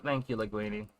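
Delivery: dead voice. Retold or imitated. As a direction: say it with zero enthusiasm, drained.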